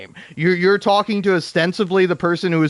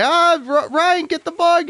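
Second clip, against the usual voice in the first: higher, panicked call for the husband; mock freaking out; 11 semitones higher than usual. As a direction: imitate a wife squealing at a bug. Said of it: "she was freaking out".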